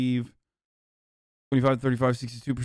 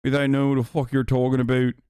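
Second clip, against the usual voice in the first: put-on Irish accent. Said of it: "that I'm doing an Irish, Irish voice".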